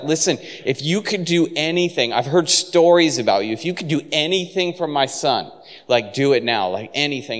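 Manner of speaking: mildly pleading, pitch lifting on the ifs; a touch of a father's urgent appeal. Acted. Father begs Jesus to help his son, pleading.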